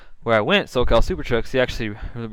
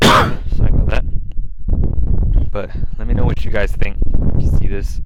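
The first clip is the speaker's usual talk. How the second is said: shouting over wind; 8 dB louder than usual. Real, not acted. Still outside in the wind.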